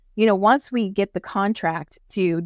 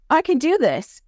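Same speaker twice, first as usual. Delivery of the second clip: excited realization; 7 semitones higher than usual. Acted. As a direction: shout it as the kid finally gets it. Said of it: "they're like".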